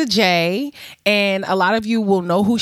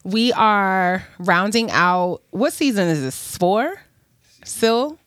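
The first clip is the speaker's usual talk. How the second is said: slight lisp from retainers in; talking around retainers in the mouth; wearing a retainer. Real, not acted. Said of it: "so it sounds like I have a list".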